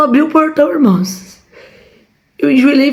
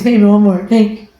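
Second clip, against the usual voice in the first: cooing to dog. Shown as a demonstration. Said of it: "E eu fiz assim pro meu irmão".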